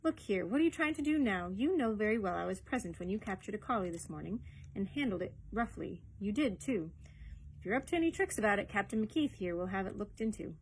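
lightly voiced woman challenging an official; indignant customer calling out a lie; indignant young woman.

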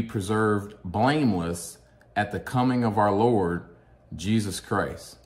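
slow, measured verse reading with weighted pauses; scripture reading. Acted. Reading Thessalonians to viewers following along, measured scripture reading. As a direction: read it out slowly, phrase by phrase.

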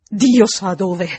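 slow, loud, weighty answer; grave, unspeakable dread. A narrator's reading. Housekeeper answering where Quint went, slow and weighty. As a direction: draw out each word heavily. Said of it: "Un'espressione indicibile".

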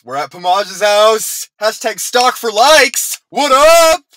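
loud, high, drawn-out yell; shouting. Acted. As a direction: bellow it at the house. Yelling outside idol's house.

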